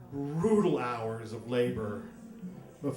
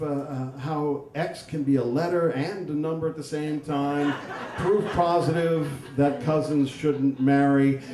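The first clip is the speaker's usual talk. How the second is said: golf announcer voice; 2 semitones higher than usual. Retold or imitated. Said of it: "in golf announcer voice".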